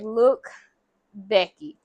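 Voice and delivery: measured, mildly firm address; stern but polite. Retold or imitated. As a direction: politely lay down the line. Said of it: "still trying to be, like, s-, stern, but still polite".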